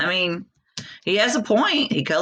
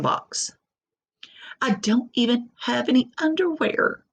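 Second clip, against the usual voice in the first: higher, embarrassed little crayon pleading for clothes; embarrassed peach crayon; 3 semitones higher than usual. Acted. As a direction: play it as a mortified naked crayon. Reading peach crayon letter.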